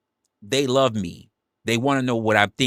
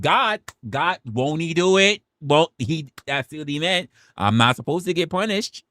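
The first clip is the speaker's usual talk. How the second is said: put-on much higher, whiny child excuse; mock pleading kid; 8 semitones higher than usual. Streamer imitating Southern kid pleading, high and whiny. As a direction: whine like a kid dodging punishment. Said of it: "I've seen y'all do it".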